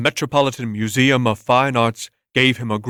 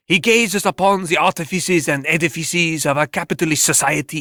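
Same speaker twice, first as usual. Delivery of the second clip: pompous pundit; 2 semitones higher than usual. Acted. TV talk show critic explaining Bert's art, pompous. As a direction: lecture on Bert like a self-important critic.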